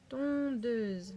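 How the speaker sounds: "Tondeuse" with a long held "on"; stretched teaching "Tondeuse"; drawn-out syllables. Shown as a demonstration. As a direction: linger on the first syllable of "Tondeuse". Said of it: "où se trouve le on".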